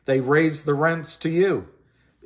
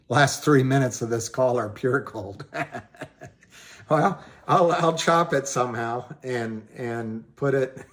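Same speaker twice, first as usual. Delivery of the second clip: normal talking voice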